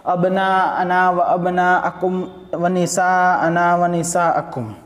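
very slow, stretched melodic recitation; slow Quranic chant with long vowels. Shown as a demonstration. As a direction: draw out every syllable like tilawat. Repeats verse in recitation.

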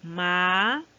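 "Ma-le-tín" split into three syllables, tín rising loudest. Shown as a demonstration. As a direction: break "Ma-le-tín" apart, pausing after each syllable.

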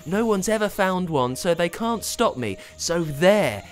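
a hint of a petulant boss; mildly voiced greedy man huffing; huffing tycoon. A narrator's reading. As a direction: huff it off dismissively. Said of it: "Incrementus huffed".

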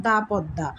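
দা Padma, with open "aa" in দা. Shown as a demonstration. Teacher modelling "the Padma" for pupils, "da" sound. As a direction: say দা before the consonant of Padma. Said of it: "এখানে উচ্চারণ করব".

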